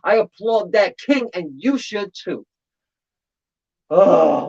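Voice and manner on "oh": a loud choked oh, put on; loud pretend sob; mock emotional cry. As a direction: fake sob of feeling. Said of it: "I'm getting all emotional".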